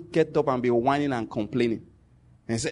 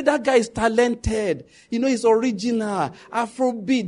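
mock praise; 5 semitones higher, slower than usual. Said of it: "they'll say".

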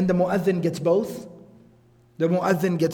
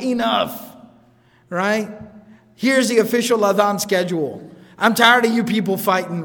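mock-stern British imam ending the squabbling; British accent. The imam telling people to stop fighting, in a light British accent. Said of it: "in his very awesome British accent".

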